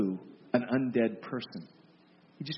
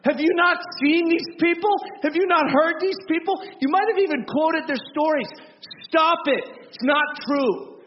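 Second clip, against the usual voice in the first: shouted, much higher and louder; furious rebuke; 9 semitones higher, 5 dB louder than usual. Retold or imitated. Preacher shouting down a believer's heaven selfie story, furious. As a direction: blast them, voice cracking high with outrage. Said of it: "I'm like".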